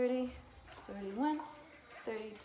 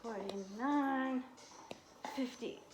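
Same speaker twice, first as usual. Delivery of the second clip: doing sit-ups; 3 semitones higher than usual. Real, not acted. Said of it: "my abs are burning".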